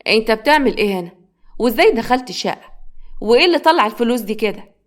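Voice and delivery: a touch of stunned disbelief; shocked father. Acted. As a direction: demand answers from the son you caught. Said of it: "عبد العزيز بصدمة".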